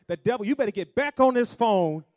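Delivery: acted angry demand. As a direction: shout it like a furious caller being hung up on. Acted angry demand mid phone quarrel.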